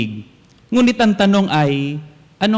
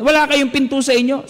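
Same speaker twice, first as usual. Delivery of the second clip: retold shout; 8 semitones higher than usual. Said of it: "Sabi niyang ganyan".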